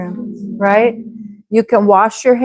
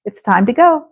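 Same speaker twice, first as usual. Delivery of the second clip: faster; faster than usual. Shown as a demonstration. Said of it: "let's try saying that faster".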